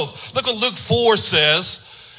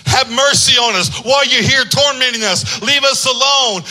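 demons screaming; 3 semitones higher than usual. Retold or imitated. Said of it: "they would automatically scream out".

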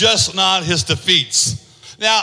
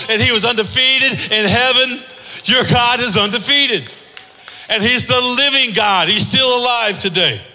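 rising preacher's cadence, building; preaching; 2 semitones higher than usual. Acted. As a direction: proclaim it to the congregation like a refrain. Preaching God is undefeated.

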